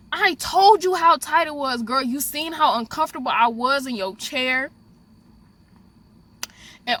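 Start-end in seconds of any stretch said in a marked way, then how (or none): 0.1-4.7 indignant outburst. Retold or imitated. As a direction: let her have it, you warned her. Venting at the stylist.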